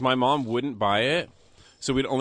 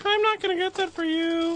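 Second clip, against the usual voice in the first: strict mom. Retold or imitated. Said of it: "those fucked up bitches who'd be like".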